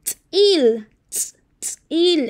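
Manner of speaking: "tzil" with a hard popped ts; "tzil" with a glottalized ts and a falling tune; T and Z with accent. Shown as a demonstration. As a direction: hit the ts in "tzil" sharply, as a click. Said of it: "la T y la Z con acento es".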